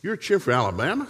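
a high, outraged wife voice; imitating his wife. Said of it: "She said".

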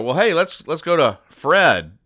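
high, bouncy comic-strip voice; eager suggestion. Acted. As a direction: pitch the bright idea brightly. Voices comic characters hatching a plan.

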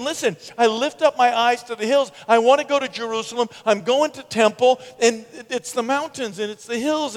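psalmist's self-talk. Acted. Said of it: "that's what this guy is doing".

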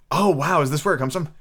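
delighted oh wow of discovery; surprised recognition. Real, not acted. Reader recognising the famous sea song, surprised. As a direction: realise where the song comes from. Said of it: "recognising the sea song".

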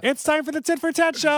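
high, bright show announcement; announcer voice. Acted.

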